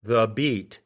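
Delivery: "the beat" with the stress on "beat"; "the beat", unstressed "the", then emphasized "beat"; stress on second unit. Shown as a demonstration. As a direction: say "the beat" as an iamb, leaning on "beat". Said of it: "the emphasis is on the second unit".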